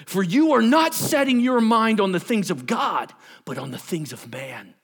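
stern, high-pitched preaching rebuke; Jesus. Acted. Teacher corrects his disciple's focus, stern rebuke. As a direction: scold firmly, pushing the key words. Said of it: "he's real stern about it".

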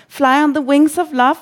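high, drawn-up mock shout; shouted song lyric. A narrator's reading. Reveller to the sleepy Russian, shouting along to the song. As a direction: belt the lyric into someone's ear. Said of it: "råber jeg ind i hans ører".

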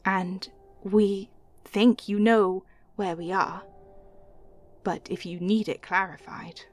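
hushed deity with long, weighty pauses; lightly voiced god, coaxing in halting phrases; god in the ear. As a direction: speak close, like a god giving a mission.

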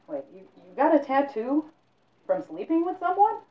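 put-on high, loud disbelieving old man; startled old librarian; old man's shock. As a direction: blurt it out in shock.

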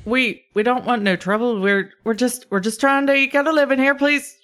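high, pleading attempt at Scottish; kobold Scottish brogue. Kobold asks for no trouble, high pleading brogue. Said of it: "Scottish brogue".

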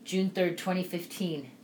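soft, subdued reading of a grief diary; reading a grief journal. Real, not acted. Widow reading her journal about Byron's death, soft and sad. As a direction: read your own diary entry, holding back tears.

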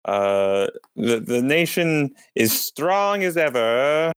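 talking through a mouthful; mouth full. Acted. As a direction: mouth full of jelly beans. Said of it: "my mouth is full of jelly beans".

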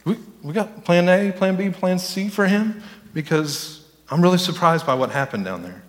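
half-serious flustered planner; mock fretting God. Preacher mocking God scrambling for a backup plan. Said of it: "God's up there".

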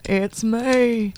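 put-on southern accent; lightly done southern voice. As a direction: say it with a playful southern twang. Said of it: "can only do a southern accent".

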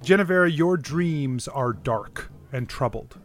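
measured, dramatic dream narration; game master narration. Acted.

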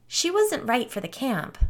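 chirpy explanation; bright answer. A narrator's reading. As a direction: answer brightly, as if nothing were wrong. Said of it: "Gretchen answered brightly".

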